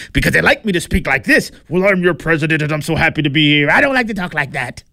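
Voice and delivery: a hint of mock Trump voice; mild Trump impersonation; Trump impression. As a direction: lightly play the president mocking his own speech. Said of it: "That's what he said".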